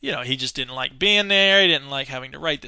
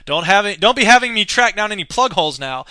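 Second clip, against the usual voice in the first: mock Roger; 5 semitones higher, 7 dB louder than usual. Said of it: "he would raise an eyebrow and say".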